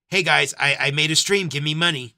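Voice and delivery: loud sarcastic whine of a streamer begging; mocking entitled streamer. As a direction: mimic a lazy streamer loudly demanding cash. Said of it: "You cannot just".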